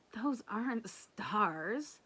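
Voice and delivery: put-on slow, knowing kid voice; correcting brother. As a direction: correct her patiently.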